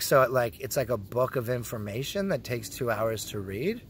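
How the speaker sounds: mock-puzzled, lifting into a question at the end; sarcastic. Patient needling staff about the two-hour wait, sarcastic. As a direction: feign confusion to needle the staff. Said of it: "Obviously, I was being sarcastic".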